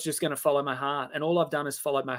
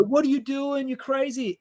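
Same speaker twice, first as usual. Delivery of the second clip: inner critic voice; 9 semitones higher than usual. Retold or imitated. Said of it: "And the mind will go".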